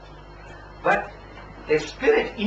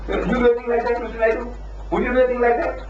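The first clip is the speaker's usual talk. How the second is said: indignant reproach; 7 semitones higher, faster than usual. Retold or imitated.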